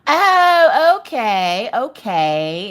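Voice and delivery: exaggerated oh-I-see, falling from high; mock realization. Her reaction to husband's news.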